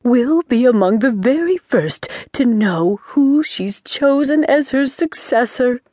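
a delighted witch whispering the gossip; excited whisper. Acted. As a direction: whisper the thrilling news. Excited witch shares secret.

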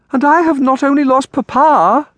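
put-on very high, loud girlish wail; crying out. A narrator's reading. Bereaved girl to her aunt, crying out. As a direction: cry it out in childlike distress. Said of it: "Amelia cried".

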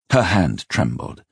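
plain reading voice

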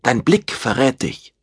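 a hint of a warning woman. A narrator's reading. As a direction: keep the warning going, lightly voiced. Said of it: "sagte Silvia warnend".

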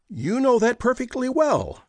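quick, high retort; shot back. Acted. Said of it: "Josie shot back".

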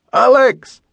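loud, high call across the shore; calling from afar. A narrator's reading. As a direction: shout his name from the boat. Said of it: "he heard Duncan calling from the shore".

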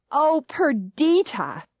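slow, drawn-out reproach; mother's reproachful tone. Retold or imitated. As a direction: drag the name out like a disappointed mother. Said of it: "in a tone that sounded exactly like my mother's".

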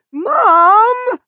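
high, loud wail of Mom; wailing shout. A narrator's reading. Teen daughter wailing at her mother, high and loud. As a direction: cry out in dismay. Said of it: "Erin wailed".

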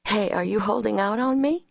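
demanding lightly. A narrator's reading. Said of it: "she demanded lightly".

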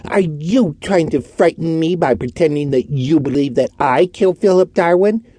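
crying out, voice shaking with fear; trembling cry. A narrator's reading. Orton crying out at the detective, trembling. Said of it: "his voice trembled in spite of himself".

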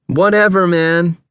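high, irritated retort; shouted brush-off. A narrator's reading. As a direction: shout him off dismissively. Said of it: "seemed all he could say or shout".

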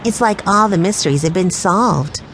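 ordinary delivery

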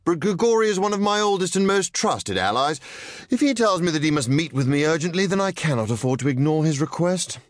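a trusted leader explaining himself to his bodyguard; composed gentleman villain. A narrator's reading. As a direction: reason with her calmly, firm but patient. Nero's voice held by narrator.

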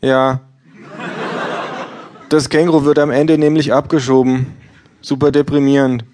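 hohes, lautes gleichgültiges Ja; Buchhändlerin. Acted. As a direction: ein schrilles Ja ohne Interesse. Bookseller voiced high. (Verkäuferin antwortet hoch und laut gleichgültig)

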